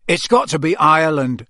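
talking through a mouthful; thick voice with mouth full. Acted. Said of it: "said Charlie thickly through a mouthful of potato".

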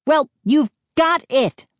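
high, exasperated retort; indignant exclamation. A narrator's reading. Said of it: "Mindy exclaimed".

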